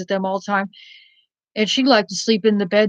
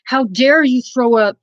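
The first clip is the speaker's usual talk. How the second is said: mock angry scolding. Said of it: "the foster mother got so pissed because she goes".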